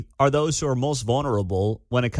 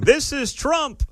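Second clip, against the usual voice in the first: high, drawn-out mock screech; exaggerated high-pitched imitation of a scream; 13 semitones higher, slower than usual. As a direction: mimic her screaming, slow and pitched way up. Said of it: "and she's screaming".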